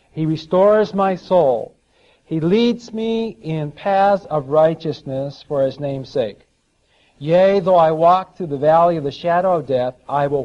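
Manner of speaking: measured preacher's scripture delivery with weighty key words; psalm recitation. Acted. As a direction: proclaim the psalm to the congregation, stretching key phrases.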